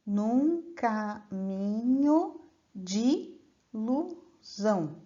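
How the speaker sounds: drawn-out, each sound laid out slowly; slow syllable demo. Shown as a demonstration. Teacher slows the verse to show students the joined sounds. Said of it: "você tem uma emenda de sons".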